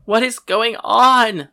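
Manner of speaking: high, slow, drawn-out yell; anguished shout. A narrator's reading. Narrator overwhelmed by new sensations and pain, anguished shout. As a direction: shout it out in desperate confusion.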